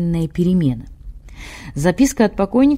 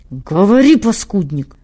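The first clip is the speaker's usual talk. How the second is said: angry command; 4 dB louder than usual. Acted. Bishop berates secretary.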